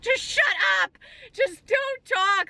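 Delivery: high, frantic plea, slowing on the second line; retold panicked snap. Telling mom on FaceTime to stop talking, high and frantic. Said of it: "I was freaking out".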